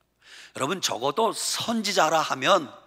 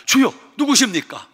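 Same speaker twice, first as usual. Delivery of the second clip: calling out; 8 semitones higher, 5 dB louder than usual. Acted. Peter calling out on the sea.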